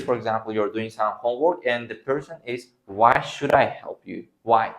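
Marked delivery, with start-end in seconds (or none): 2.9-4.7 irritated refusal. Acted. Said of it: "can also indicate anger or irritation".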